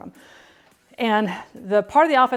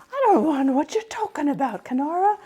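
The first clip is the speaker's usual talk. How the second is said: high put-on voice; 7 semitones higher than usual. Real, not acted. Teasing son's British accent.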